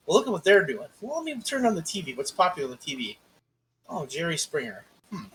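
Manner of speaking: lilting start, trailing off softly; musing businessman. Retold or imitated. Host imitating a struggling promoter scouting trends, musing. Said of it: "you look around at the world and you go".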